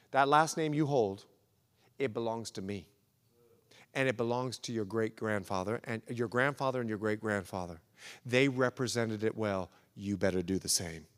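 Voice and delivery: put-on a dad's mild Bahamian accent. Dad telling his kid about the family name, light Bahamian accent. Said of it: "I'll do a little Bahamian accent".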